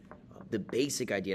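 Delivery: tight, pinched, effortful voice; strained, pinched throat. Real, not acted. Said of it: "my voice is so strained".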